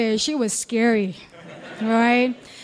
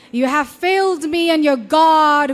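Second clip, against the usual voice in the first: rising reproach; 3 dB louder than usual. Acted. Repeated accusation, louder second take.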